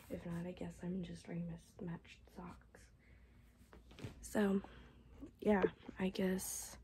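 soft hoarse whisper; voice giving out. Real, not acted. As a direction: voice almost gone. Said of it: "my voice is about shot".

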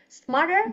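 Smarter with the t softened to a light d; American flap t. Shown as a demonstration. Teacher shows the class the American Smarter. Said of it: "Giọng Anh Mỹ thì chữ tờ thành chữ đờ nhẹ".

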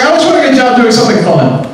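put-on high-pitched girly voice; young girl. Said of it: "this girl was telling a friend".

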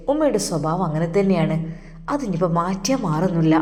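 a lightly voiced young husband soothing his wife; Sinu comforting.

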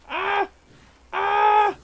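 high-pitched battle screams; short, piercing yells in the heat of a fight; excited scream. Real, not acted. Gamer gets carried away fighting monsters, excited screams. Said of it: "me emociono".

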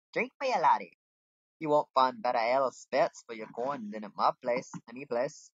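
a hint of a hearty barkeep; lightly voiced innkeeper. Innkeeper touting ale to laddie, lightly acted. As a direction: pitch your ale in character.

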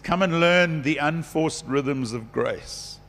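"Come and learn the unforced rhythms of grace" said slowly, dwelling on "learn"; a slow, savouring read of the verse, leaning on "learn"; savoured scripture. Retold or imitated. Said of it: "He says".

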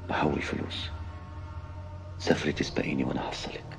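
hushed urgent whisper. Acted. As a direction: whisper the plan softly. Husband secretly plans her escape.

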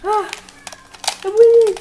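high, loud victory cry; excited triumph. Acted. Player boasting to friend mid-game, excited triumph. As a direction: crow over the game. Gloating during video game.

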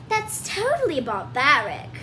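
light British accent imitation; a faded British accent. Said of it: "lost the little British accent".

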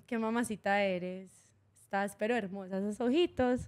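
lightly voiced Colombian charm; a hint of a Colombian flirty tone; Colombian flirting. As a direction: sweet-talk him in a paisa lilt. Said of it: "Ok, ahora dímelo en colombiano".

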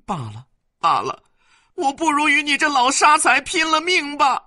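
very high, loud shrieking wife; wailing rant. Acted. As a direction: howl at him, ready to fight. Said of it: "反大哭起来".

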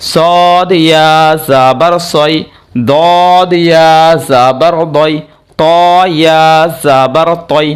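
slow, singsong letter chant; measured Quran-primer recitation with long vowels; recited spelling drill. Shown as a demonstration. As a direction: stretch each letter name on a level tone.

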